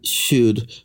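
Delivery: "should" set apart by pauses; air-quoted SHOULD. Real, not acted. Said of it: "giant air quotes here".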